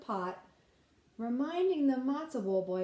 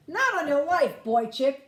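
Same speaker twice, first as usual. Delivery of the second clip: laughing boast; 6 semitones higher, 8 dB louder than usual. Acted. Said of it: "the matzo ball boy laughed".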